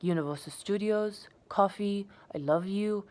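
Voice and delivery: I love you said with a faux English polish; over-enunciate like a would-be English speaker; mock English accent; overcorrected English-ish. Shown as a demonstration. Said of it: "sound like I was trying to be English".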